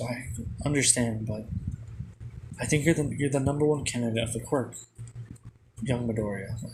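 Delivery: ordinary talk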